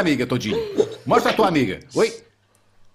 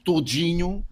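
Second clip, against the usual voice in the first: suggestive; much slower than usual. Acted. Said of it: "há aqui um quê sexual".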